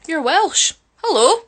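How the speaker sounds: high, loud, bright hello to a Welsh viewer; excited greeting. Real, not acted. Streamer greeting a Welsh viewer, excited hello.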